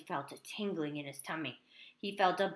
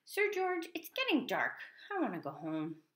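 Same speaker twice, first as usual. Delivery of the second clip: homesick little dragon; 2 semitones higher, 4 dB quieter than usual. Acted. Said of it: "he missed his parents".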